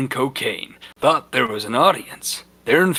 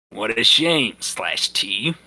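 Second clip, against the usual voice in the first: snarky; 2 semitones lower, slower than usual. Acted. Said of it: "he said, snarking".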